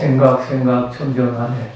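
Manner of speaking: measured final line for repeating; leading a recitation. Shown as a demonstration. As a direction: recite evenly for the group to echo. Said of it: "요거 한번 같이 해볼까요".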